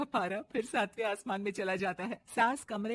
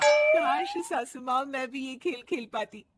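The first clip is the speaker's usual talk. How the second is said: wistful sigh; 4 semitones higher, 6 dB louder than usual. Acted. Bride sighing wistfully.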